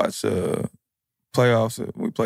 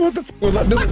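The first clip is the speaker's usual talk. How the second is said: high mock voice; 9 semitones higher, faster than usual. Imitating himself regretting.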